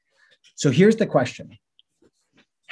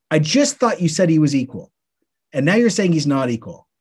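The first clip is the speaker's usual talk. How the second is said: mock bafflement; 3 semitones higher than usual. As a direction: protest like a confused listener. Acting out a confused listener's objection.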